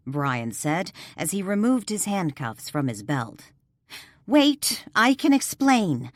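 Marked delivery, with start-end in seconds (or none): 4.3-6.1 high, loud panicked burst; frightened plea to the officers. Acted. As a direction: blurt it out before the cuffs go on. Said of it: "Danielle said in a panic".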